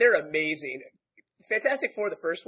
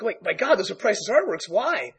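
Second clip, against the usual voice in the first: raised, startled voice; alarmed art lover; shocked; 4 semitones higher than usual. Retold or imitated. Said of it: "And Tony's like".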